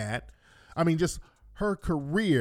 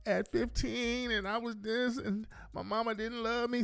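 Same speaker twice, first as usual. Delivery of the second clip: softer, higher, confiding whine; mock oversharing confession; 5 semitones higher, 9 dB quieter than usual. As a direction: spill it like a sad secret. Worker spilling sad story.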